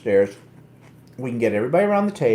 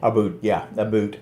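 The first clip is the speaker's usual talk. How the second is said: put-on Canadian accent; 3 semitones lower than usual. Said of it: "my Canadian accent".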